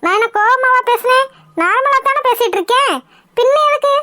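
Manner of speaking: high-pitched mock innocence; needled, defensive comeback; indignant protest. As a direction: protest with pitch climbing line by line. Mother-in-law protests at the tears.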